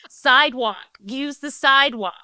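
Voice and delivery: British speaker mocking American "sidewalk"; mocking American accent. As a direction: poke fun with an imitated American accent. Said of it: "takes the piss out of, um, Americans".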